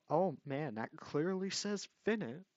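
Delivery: lightly hammed-up astonishment; mock surprise. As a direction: feign amazement at the obvious. Feigned surprise after inserting scan.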